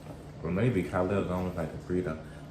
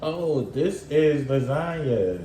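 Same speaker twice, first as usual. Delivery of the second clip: white people voice; 6 semitones higher, slower than usual. Retold or imitated. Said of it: "you know how white people be".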